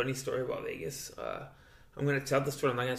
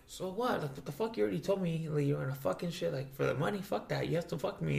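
mildly heated mock protest, higher pitch; retold indignant girl; 4 semitones higher than usual. Girl confronting a reluctant client, indignant. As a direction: act out her arguing back, pitched up without shouting.

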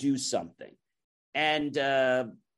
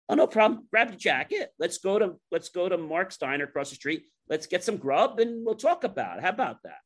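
high, chummy salesman patter; breezy enthusiasm; 6 semitones higher than usual. Retold or imitated. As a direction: brush off the problem with a raised, eager voice. Sales rep breezily proposes a meal.

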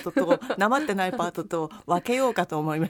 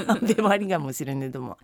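low-pitched Akita dialect; 6 semitones lower than usual. Shown as a demonstration. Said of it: "秋田弁でこのまま喋っていく".

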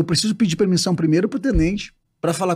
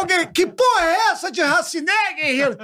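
high-pitched exasperated demand; irate sergeant; 10 semitones higher than usual. Acted. Sergeant baffled by the stutterer's word, irate shouting. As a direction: demand an explanation from the recruit. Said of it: "o sargento chegava".

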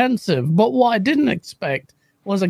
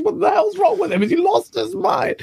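half-voiced retold scream, pitched up; 10 semitones higher than usual. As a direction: imitate an outraged teacher yelling. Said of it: "She's screaming at me".

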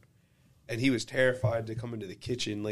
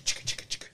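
whispered rattling chicka sounds; imitated rattling noise; 3 dB quieter, much faster than usual. Cat owner imitating the rattle at his door, whispered. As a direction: mimic the cat shaking the cable. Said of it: "wake up to just chicka".

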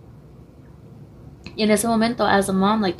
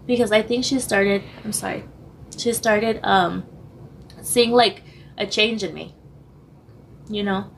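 losing voice. Real, not acted. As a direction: voice giving out, getting hoarse. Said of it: "I'm losing my voice".

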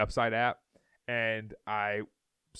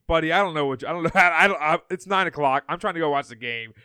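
louder, laughing disbelief; flustered, loud disbelief; exasperated; 3 semitones higher, 6 dB louder than usual. Retold or imitated. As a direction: pile on the exasperation. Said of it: "I'm like".

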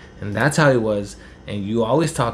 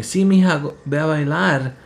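high, louder coaxing mom voice; mom urging; 5 semitones higher, 3 dB louder than usual. Retold or imitated. Mom urging daughter to dance, high coaxing voice. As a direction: push her daughter to dance, eager and high. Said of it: "And my mom saying".

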